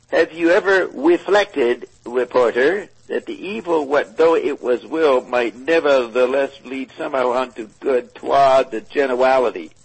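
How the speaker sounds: lightly attempted cartoon voice, r's turned to w's; Elmer Fudd. Reader performing the question for co-reader, lightly attempted Elmer Fudd. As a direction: read it aloud as a loose cartoon imitation. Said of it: "written in the style of Elmer Fudd".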